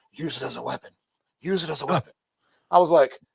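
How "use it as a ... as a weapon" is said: hushed, repeated half-whisper. Retelling a stranger at a protest urging violence: imitating a half-whisper. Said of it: "leans over and whispers in my ear".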